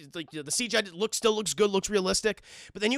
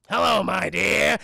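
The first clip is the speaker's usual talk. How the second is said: loud, slow, sinister hello; creepy villain greeting; 6 dB louder, slower than usual. Retold or imitated. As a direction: greet her slowly like a leering villain. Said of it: "He's like".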